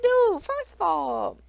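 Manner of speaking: high, loud mock scolding; exasperated call-out. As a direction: call him out, pitch up and loud. Scolding Brandon in mock confrontation.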